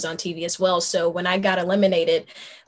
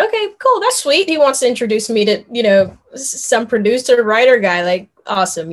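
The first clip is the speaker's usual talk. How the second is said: high, bouncy imitation of her younger self; excited inner voice; 3 semitones higher, 4 dB louder than usual. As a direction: chirp it out, carefree. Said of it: "I was like".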